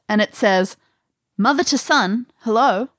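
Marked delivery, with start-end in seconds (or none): 1.4-2.9 lightly voiced woman on a recording, pitched up; a hint of a recorded mother's voice, higher; woman's voice. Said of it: "you hear a woman's voice".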